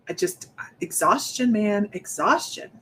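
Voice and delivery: winded, tired voice; out of breath. Real, not acted. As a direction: talk while short of breath. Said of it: "I am still getting out of breath".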